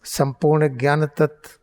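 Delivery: unhurried meditation teacher; guided meditation. Real, not acted. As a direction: guide them into focus with long pauses. Leads eyes-closed guided meditation.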